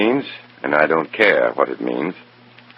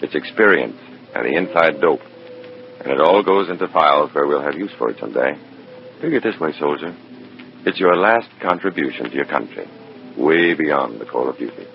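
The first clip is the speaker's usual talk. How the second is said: noir story narration. Acted. Agent narrating how he handles the dead soldier's pouch, in a measured noir voice. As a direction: tell it like a tired detective looking back. First-person narration over music.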